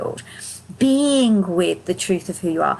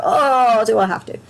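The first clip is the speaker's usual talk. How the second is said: reluctant whine; 3 dB louder than usual. Retold or imitated. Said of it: "they go".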